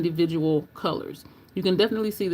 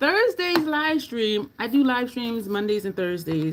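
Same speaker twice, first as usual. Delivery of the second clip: eager, excited, pitched-up, swooping announcer delivery; 5 semitones higher than usual. Livestreamer announcing the upcoming thursday live stream to viewers, excited yelling. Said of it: "I'm yelling because I'm excited".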